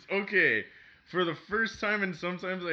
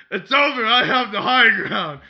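dramatic movie hero line; mock Obi-Wan line; 4 semitones higher, 9 dB louder than usual. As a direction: declaim it like a film duel. Quoting Star Wars duel line.

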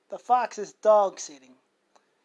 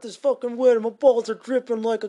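a lightly voiced crude loudmouth, a bit louder; 4 dB louder than usual. Joking he'd never greet the store like this, mild mock crude loudmouth. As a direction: ham up a vulgar guy at the store, only slightly. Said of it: "to talk like this".

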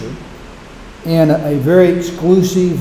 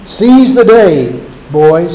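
proclaiming; 4 dB louder, slower than usual. Retold or imitated. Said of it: "he said".

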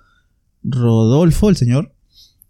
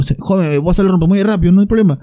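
lightly voiced old cabbie, pitched up; a hint of an old driver, voice climbing; elderly taxi driver; 6 semitones higher than usual. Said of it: "era un señor mayor".

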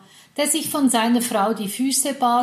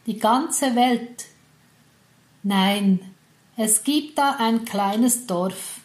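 slow, solemn fairy-tale opening; epic fantasy narrator; slower than usual. Acted. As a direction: unfold it like a legend's prologue. Epic story opening with music.

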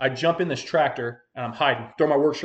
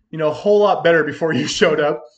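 laughing; 3 semitones higher, 7 dB louder than usual. Retold or imitated. Joking back to the cop.

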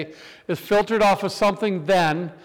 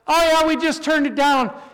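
mimicking teen girls; 8 semitones higher than usual. Girls answer through door.

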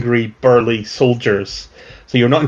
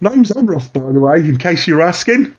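higher mutant voice, cheery; 4 semitones higher than usual. Acted. Mutant actor introducing himself to the cell, breezy and higher. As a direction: pitch up and breezy.

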